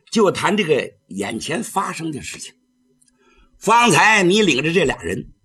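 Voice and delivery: a hint of a stern old Taoist, reasoning; an old priest counselling, at times rising; the Taoist urges the girl to stop; lightly voiced old Taoist. Taoist He Changxing lectures girl.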